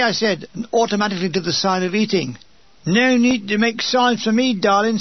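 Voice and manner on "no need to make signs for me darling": lightly voiced Cockney lady, pitched up; a touch of friendly London Cockney; mild Cockney accent, chummy. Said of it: "said the amazing Cockney voice".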